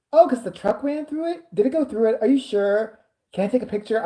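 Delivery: high, excited barrage of questions; mock nosy excitement; imitating eager Steve.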